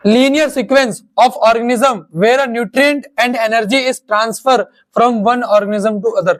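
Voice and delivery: very slow, word by word, for students to write down; slow dictation pace. Shown as a demonstration. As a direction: dictate it slowly so they can copy. Teacher dictates the definition.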